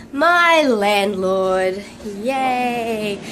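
slow, drawn-out mock delight; sarcastic cheer. Real, not acted. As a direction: announce it slowly with fake joy. Mock cheer about landlord's visit.

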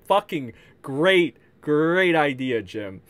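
slow, dripping sarcasm; sarcastic praise. Real, not acted. Streamer mocking Jim's choice, slow sarcastic drawl. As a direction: drag out the fake praise.

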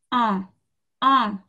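un as a French nasal vowel. Shown as a demonstration. Teacher demonstrating number one, un through the nose. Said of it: "the nose here".

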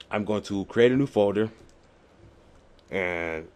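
talking around a pen; words through a pen held in mouth; pen in teeth. Real, not acted. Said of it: "Put my pen in my mouth there".

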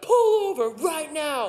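slow shouted order; mock yell. Angry driver yelling at them to pull over, mock yell.

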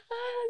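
high-pitched imitated kid's wail; hammed-up little cry; mock crying wail. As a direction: wail like a trapped little kid. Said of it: "like, he's crying".

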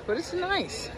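very soft hushed talk. Real, not acted. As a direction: keep it down, near whisper. Quiet at night.

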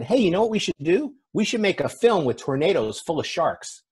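high, eager mock brainstorm; excited pitch. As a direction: pitch it like a sudden brilliant idea. Voices somebody pitching a silly film.

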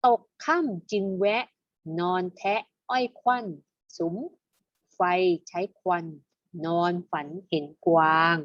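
teacher's measured poem recitation; verse reading. Shown as a demonstration. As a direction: recite the verse in short, separated phrases. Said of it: "มาอ่านเป็นบทร้อยกลองกันดีกว่า". (อ่านบทร้อยกลองเป็นวรรค ชัดถ้อยชัดคำ)

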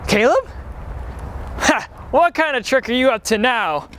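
man down shout. Acted. Finds friend hurt.

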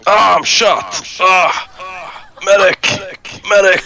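wounded soldier yelling for a medic; man down shout. Pretend. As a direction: call out for a medic, hurt. Pretends to be shot in game.

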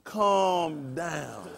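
low, soft, drawn-out hush; mock calming. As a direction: settle them right down, quietly and slowly. Acted calming, repeated lower.

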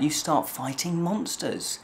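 normal talking voice

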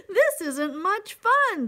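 a loud, fed-up grumble; grumbling. Acted. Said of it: "the poor elephant grumbled".

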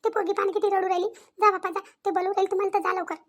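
worried village mother pestering her daughter; mother anxiously asking her crying daughter what happened; fussing mother. Acted. Mother urges father to go.

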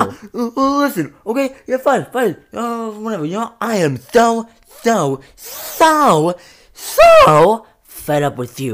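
loud, high, exasperated; yelling back. Acted. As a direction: yell back that you're fed up. Twin yells back.

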